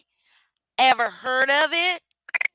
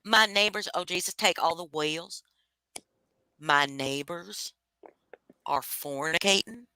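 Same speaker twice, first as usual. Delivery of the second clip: put-on Southern accent; 4 semitones lower, 5 dB quieter than usual. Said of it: "But say it in a Southern accent".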